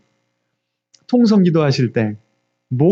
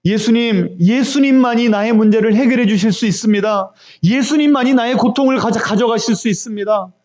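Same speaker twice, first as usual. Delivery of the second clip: raised, insistent pleading; modelled fervent confession of faith; desperate prayer; 3 semitones higher than usual. Shown as a demonstration. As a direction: cry out a prayer with mounting urgency. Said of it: "얼마나 절박하게 부르짖었는지".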